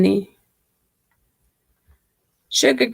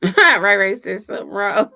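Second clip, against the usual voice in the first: laughing. Real, not acted.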